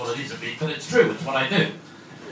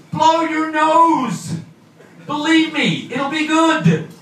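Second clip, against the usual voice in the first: telling them off; 5 semitones higher, much slower than usual. Acted. Commuters sniffing in November trains.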